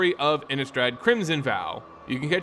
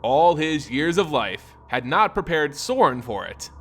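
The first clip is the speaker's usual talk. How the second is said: measured storyteller read, even and unhurried; story narration. A narrator's reading. Narrator telling Sorin's story, measured read. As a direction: tell the tale of Sorin steadily.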